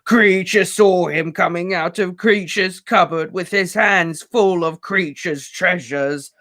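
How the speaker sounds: high, slow sobbing elf voice; gasping tearful elf. A narrator's reading. Weeping elf tells Harry of the theft. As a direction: gasp it out through tears. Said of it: "gasped the elf as tears poured".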